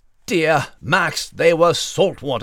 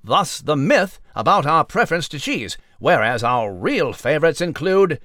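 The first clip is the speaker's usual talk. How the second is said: crisp mock newscaster delivery; news read. Mouse Nigel reporting to listeners, in a pompous newsreader voice. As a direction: present it like a formal evening bulletin.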